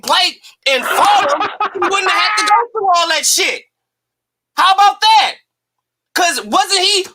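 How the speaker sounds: heated rant. Real, not acted. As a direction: let the outrage boil over with a laugh. Ranting against Wilder's partner.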